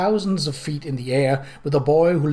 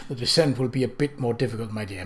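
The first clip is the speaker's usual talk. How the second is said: soothing murmur; 2 semitones lower than usual. Acted. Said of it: "he murmured in a soothing voice".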